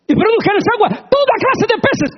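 high loud command breaking into a laugh; God commanding, laughing. Acted. Preacher voicing God's command to the waters, laughing. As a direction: proclaim it, then laugh. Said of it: "los animales lo dijo sí".

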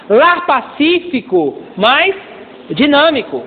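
slow, spaced preacher's slogan. Shown as a demonstration. Pastor teaching the family motto, slow and spaced. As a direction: spell it out for the church. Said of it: "slow emphatic slogan".

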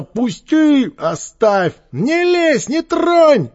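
very high, loud protests; crying out. A narrator's reading. Captured boys in the dark, crying out. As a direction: shriek in protest, fighting off hands.

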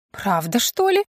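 drawn-out, biting question; sarcastic drawl. A narrator's reading. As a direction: needle them with a drawled question. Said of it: "язвительно протянула она".

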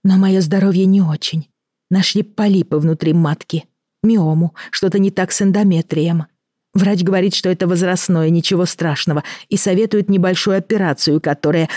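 a hint of a worried woman. Elena confides, anxious.

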